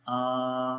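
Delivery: "आ" held for one alif's length; long vowel. Shown as a demonstration. Teacher shows learners the vertical zabar, "आ" drawn out long. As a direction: stretch "आ" out evenly. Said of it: "अलिफ के बराबर इसको लंबा करेंगे".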